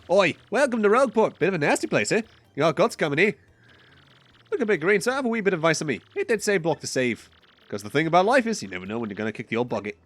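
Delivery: lightly voiced port-town local, lilting and high at first; townsperson's cheeky welcome, lightly put on; rough-town local. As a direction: greet a newcomer with a hint of salty local. Voices the Rogueport townsperson greeting.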